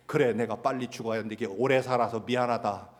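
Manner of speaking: imitating an aging parent's bitter jab; sarcastic. Old parent hurt by their children, sarcastic. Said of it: "비꼬는 거죠".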